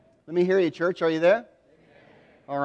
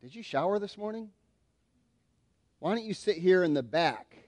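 low-key snub, dropping softer and lower; mock dismissive; 3 semitones lower, 4 dB quieter than usual. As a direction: quietly shoo an unwanted guest to the back. Acts host snubbing poor man.

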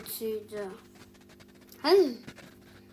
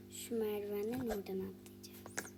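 whisper; 6 dB quieter than usual. Real, not acted. Plotting a jump, whispering.

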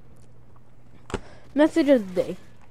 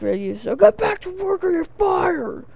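higher, mock-stern boss on the radio; 9 semitones higher than usual. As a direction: bark it like a fed-up boss. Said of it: "Be like".

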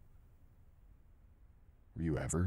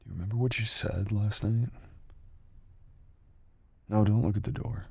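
louder, higher demand; confrontational; 5 semitones higher, 8 dB louder than usual. Acted. Partner confronting girl about last night, louder and higher. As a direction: call her out and stop her bolting. Confrontation, stopping her escape.

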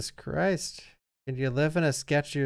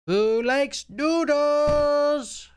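very slow, high, sing-song question; scared horror game streamer; 11 semitones higher, much slower than usual. Pretend. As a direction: drag it out eerily high.

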